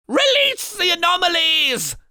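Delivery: high, loud frantic yell. A narrator's reading. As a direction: scream the order. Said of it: "he yelled".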